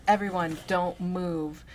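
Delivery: loud robber's command; yelled order. Acted. Robber yells at the shop customers, loud command. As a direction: bark it at the whole room. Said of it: "The first one yelled".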